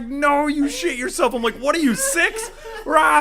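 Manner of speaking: put-on sing-song teasing like a bratty kid; mocking taunt. Taunting friend who pooped, high slow schoolyard jeer. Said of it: "So I'm busting his balls".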